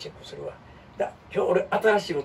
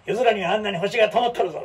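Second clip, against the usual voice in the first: cool hero line; 4 semitones higher, 4 dB louder than usual. Retold or imitated. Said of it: "かっこええやん".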